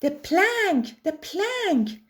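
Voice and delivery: high, eager pirate yell; bloodthirsty pirates yelling. A narrator's reading. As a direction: pirates chanting for the plank. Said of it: "yelled Ben Buckle and Percy Patch".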